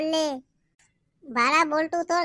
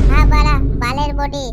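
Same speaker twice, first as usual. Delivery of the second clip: scornful shout; 10 dB louder than usual. Acted. Heated mock quarrel.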